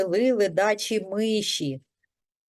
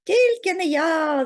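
higher, louder mouse cry; 6 semitones higher, 5 dB louder than usual. A narrator's reading. Lazy mouse Верть refuses the threshing too, crying out. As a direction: shout a quick refusal in a high voice. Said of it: "закричав Верть".

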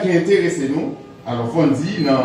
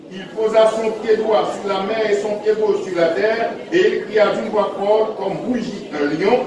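solemn reading of scripture; 3 semitones higher than usual. Acted. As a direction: read the verse out to the congregation. Reads scripture passage aloud.

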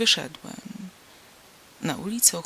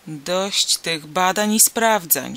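slow, cutting anger, a bit louder; angry; 5 dB louder, slower than usual. Acted. Princess cutting off the pleading stranger, angry and slow. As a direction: shut down the argument crossly. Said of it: "rzekła gniewnie Piruza".

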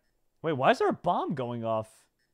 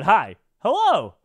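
reading a chat greeting; 6 semitones higher, 8 dB louder, slower than usual. Retold or imitated. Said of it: "He said".

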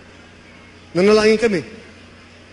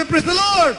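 shouted praise; 6 semitones higher, slower than usual. Real, not acted. Pastor shouting praise to congregation. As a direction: call it out to the church. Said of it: "Let us say".

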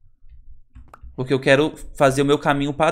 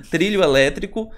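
laughing correction; 3 semitones higher than usual. Real, not acted.

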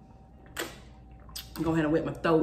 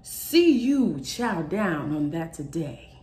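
dreamy inner voice; 3 semitones higher, slower than usual. Retold or imitated. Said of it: "It woke me up and said".

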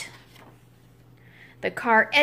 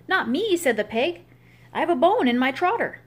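pig's voice; 4 semitones higher than usual. Acted. Pig refusing to push.

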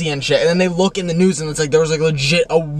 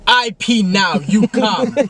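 mock demanding kid; 4 semitones higher, much slower than usual. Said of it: "I yelled".

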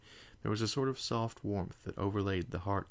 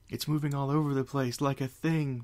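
high, loud frantic voice; frantic cry; 7 semitones higher, 4 dB louder than usual. Acted. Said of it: "Fluttershy kept crying frantically".

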